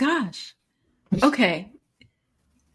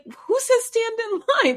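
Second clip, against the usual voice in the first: high, incredulous squeal of a question. Retold or imitated. Mother baffled by her son's correction, incredulous. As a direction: pitch it way up in disbelief.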